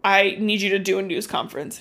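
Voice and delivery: measured, retold introduction; slow down and space it out; slowly. Girl introducing herself to Mister Neely on the phone, slowly. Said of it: "She's like, slowly".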